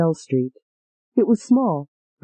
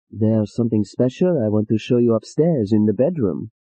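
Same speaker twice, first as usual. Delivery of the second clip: low seductive man; 7 semitones lower than usual. Acted.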